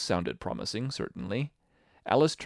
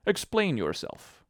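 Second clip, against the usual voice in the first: slow, higher-pitched stern command; 9 semitones higher, slower than usual. A narrator's reading. Caterpillar ordering Alice to account for herself, stern. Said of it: "said the caterpillar sternly".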